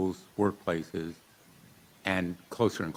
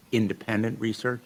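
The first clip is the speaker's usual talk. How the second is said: "independent" set apart with higher pitch; stress on independent; 4 semitones higher than usual. Real, not acted. Senator questioning industry witnesses on research funding, stress on "independent". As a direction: lift the word "independent" so it stands out. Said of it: "I stress independent research".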